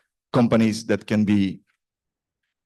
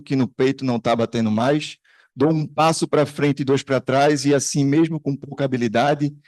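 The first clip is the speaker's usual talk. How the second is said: poem recitation; 3 semitones higher, faster than usual. Shown as a demonstration. Speaker reads a Brazilian poet's stanza to show the audience the rhythm, rhythmic recitation. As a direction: read the Portuguese verse aloud, rhythmic and a little brisk. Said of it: "just for you to get the rhythm".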